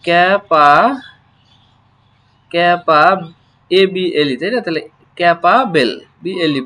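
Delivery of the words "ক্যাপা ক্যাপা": slow model word. Shown as a demonstration. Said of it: "teacher models the word".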